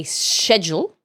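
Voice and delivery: schedule said the British way, starting "shed"; schedule as "SHED-jul"; British pronunciation. Shown as a demonstration. Streamer lists British words, schedule begun with a sh sound. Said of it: "When you're speaking British".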